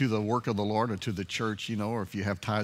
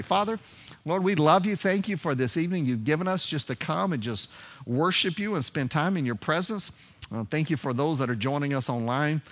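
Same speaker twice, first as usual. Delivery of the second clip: earnest prayer; 2 semitones higher than usual. Acted. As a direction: pray aloud for the hurting, calling on Father. Leads congregation in prayer.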